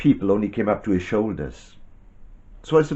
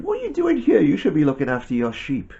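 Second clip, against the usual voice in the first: higher-pitched storyteller's scolding; 7 semitones higher, faster than usual. A narrator's reading. Brothers to young shepherd who turned up, scolding. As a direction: brothers indignantly telling off their visitor.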